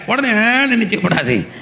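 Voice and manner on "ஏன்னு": imitated childish whine, drawn out; short put-on "waah"; mock crying wail. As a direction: mimic someone bawling over a trifle. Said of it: "அழக்கூடாது".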